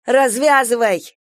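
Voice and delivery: urgent yelled order, a bit slow. Acted. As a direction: bark the order to untie her. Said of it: "заорала Галя".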